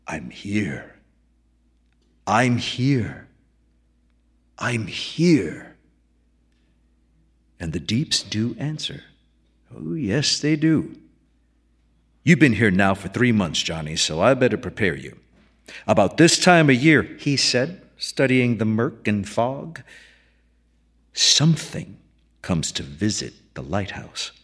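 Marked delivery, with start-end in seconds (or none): 0.1-5.8 lonely calls, repeated; foghorn call. Acted. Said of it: "calling out to the deeps". 7.6-17.2 a hint of a weathered old keeper musing; old keeper musing to young Johnny, lightly lowered; old keeper McDunn. McDunn speaking. 21.1-24.3 lightly voiced old lighthouse keeper, a bit lower; a hint of a weathered old keeper musing; old keeper musing to young Johnny, lightly lowered; old keeper McDunn. McDunn speaking.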